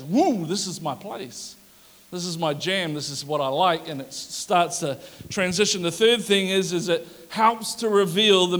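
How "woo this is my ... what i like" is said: spirit rejoicing. Retold or imitated. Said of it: "something in my spirit just goes".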